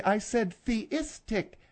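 theistic said slowly as thee-istic, not athe-; careful correction. Shown as a demonstration. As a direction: stress the th in theistic. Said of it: "No, I didn't say athe".

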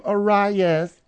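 Arias said uh-RYE-us; plain English Arias, stressed on RYE; everyday Arias pronunciation. Shown as a demonstration. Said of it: "it sounds very pedestrian".

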